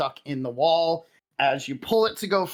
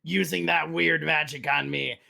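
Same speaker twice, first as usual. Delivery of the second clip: growling hobgoblin. Acted. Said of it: "the hobgoblin looks and just growls".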